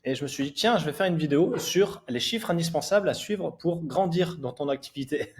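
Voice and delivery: a bit out of breath after a run; just back from jogging, still winded; after a workout. Real, not acted. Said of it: "je sors du footing".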